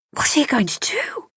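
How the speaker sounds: high, sharp and thin panicked cry; shrill. A narrator's reading. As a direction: squeak it out in alarm. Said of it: "Rosie shrilled at her".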